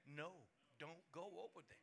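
slow, soft pleading; quiet slow warning from within; pleading spirit. Acted. Preacher voicing the spirit begging, slow soft plea.

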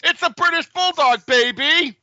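high, loud, hyped sportscaster shout; Dick Vitale impression. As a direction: yell it like a frenzied college basketball announcer. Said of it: "like Dick Vitale calling a Duke game".

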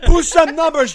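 loud, slow bingo caller call. Acted. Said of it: "You'd be a great bingo caller".

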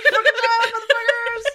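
high-pitched, laughing call to drive; hammed-up order to flee; mock yelling order. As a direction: cheer them on through a laugh.

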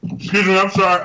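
talking with a mouthful of food; words round a bite of food; mouth full. Real, not acted. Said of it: "I'm eating the chicken salsa".

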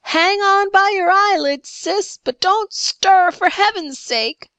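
high, loud, urgent shout; shouted warning. A narrator's reading. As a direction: call out an urgent warning to someone clinging on. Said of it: "shouted one of the men".

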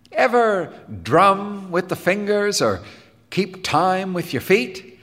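high-pitched, eager question; brightly inviting, lilting upward. Acted. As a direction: coax with upbeat enthusiasm. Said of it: "said Helmholtz to Jim brightly".

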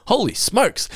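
high, cartoonish holy smokes; gleeful surprise. Shown as a demonstration. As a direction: exclaim it with goofy delight. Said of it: "you're actually genuinely surprised".

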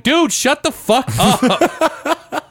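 high, slow, laughing through it; laughing brush-off. Retold or imitated. Retelling telling off the drunk stall neighbour, laughing. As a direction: tell him off while cracking up. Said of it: "I'm like".

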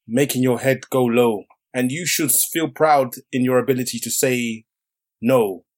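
slow, solemn poetry reading; poem recital. Acted. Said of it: "excerpt from a poem".

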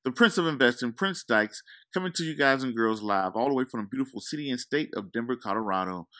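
showman announcer intro; ringmaster. Acted. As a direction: roll up, roll up, like a showman. Show host intro, announcer style.

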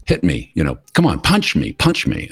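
high squeaky imitation of her begging; high mimicking voice, punch me; mock pleading.

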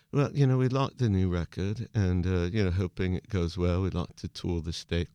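a lightly done bored pop star giving stock answers; bland band interview voice. Retold or imitated. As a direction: send up a polite band in a press interview. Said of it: "But any interviews".

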